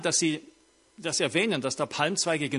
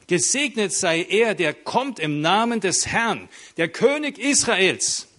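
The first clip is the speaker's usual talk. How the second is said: crowd acclamation; 3 semitones higher, 4 dB louder than usual. Retold or imitated.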